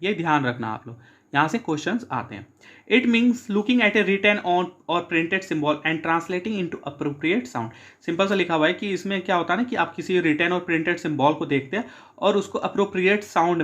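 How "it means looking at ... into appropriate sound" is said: slow, careful dictation reading. Shown as a demonstration. Teacher reading objectives to students, slow dictation. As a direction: read each phrase out slowly for notes. Reads definition aloud slowly.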